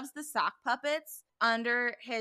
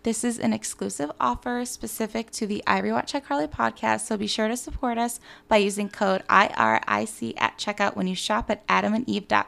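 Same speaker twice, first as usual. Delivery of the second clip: ad read; 7 dB louder than usual. Real, not acted. Reads sponsor ad.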